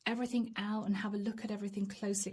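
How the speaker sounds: hushed grudging whisper; whispered inner thought. Retold or imitated. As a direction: mutter it to yourself under your breath. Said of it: "this is you pondering".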